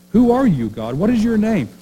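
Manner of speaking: wondering question. Retold or imitated. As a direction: call up to God in awe. Moses asking God his name.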